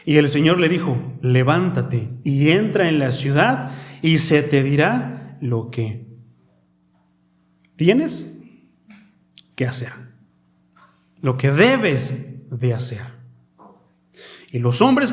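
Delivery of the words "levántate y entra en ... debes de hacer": slow, halting recitation with long pauses; scripture reading. Real, not acted. Preacher reading the Lord's command to Saul, slow deliberate recitation. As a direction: read the command out phrase by phrase.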